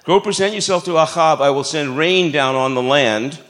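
put-on a light Brooklyn Jewish accent for God's voice. Pastor voicing God to Elijah in a light Brooklyn Jewish accent. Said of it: "sounded like a Brooklyn Jew".

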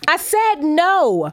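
loud, slow and final; loud firm no. Acted. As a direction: say no with full force. Woman refuses producer again.

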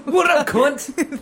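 high, loud and very slow, laughing through it; drawn-out giggly greeting; laughing mock greeting. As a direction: stretch it out while cracking up.

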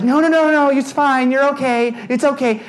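high-pitched, hurried mock reassurance; insistent reassuring friend. Friend keeping a panicked rider in line, high insistent reassurance.

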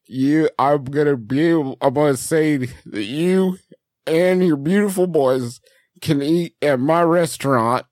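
lightly voiced small-town restaurateur; ham seller Cam making an offer. Offering Clint's boys free meals, measured folksy character. Plays Cam on prank call.

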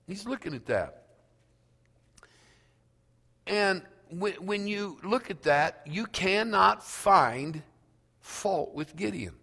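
usual speaking voice

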